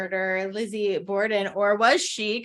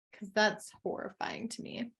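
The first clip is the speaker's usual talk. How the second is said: whisper; 7 dB quieter than usual. Pretend. Mock horror at prices.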